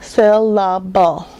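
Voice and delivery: Syllable slowly split as SYL-LA-BULL; three separate chunks in Syllable: syl, la, bull. Shown as a demonstration. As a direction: count out Syllable in three slow beats. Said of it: "my chin goes up three times".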